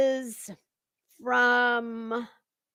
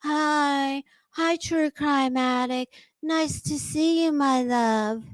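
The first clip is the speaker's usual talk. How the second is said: mocking Betty's voice; 3 semitones higher, slower than usual. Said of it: "she's back to talking like this again".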